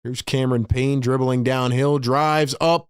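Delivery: play-by-play swelling on the drive, then settling; live play-by-play. Real, not acted. Streamer calling Cameron Payne's drive live, play-by-play. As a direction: stretch the call as the drive rises.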